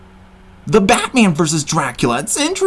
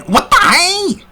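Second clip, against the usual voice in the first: surprised; 12 semitones higher, 3 dB louder, slower than usual. Real, not acted. Stunned reaction to villain pick.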